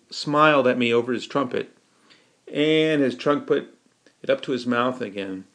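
usual speaking voice

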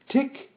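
high, short spoken ticks; mechanical ticking. A narrator's reading. Metal man ticks between phrases, high mechanical ticking. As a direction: tick like clockwork, high and evenly spaced. Metal man's clockwork tick.

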